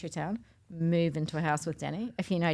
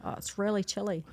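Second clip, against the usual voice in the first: New Zealand accent; 3 dB quieter than usual. Shown as a demonstration. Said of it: "Can you say chilly?".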